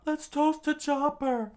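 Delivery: high-pitched rallying cry; screamed toast. A narrator's reading. Usopp leading the crew's toast, screaming. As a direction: call the toast out across the party. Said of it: "Usopp scream out".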